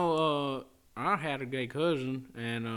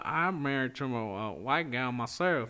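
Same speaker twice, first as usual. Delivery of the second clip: put-on country accent; 4 semitones lower than usual. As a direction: play a Southern country husband. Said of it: "A little more practice, it'd be believable".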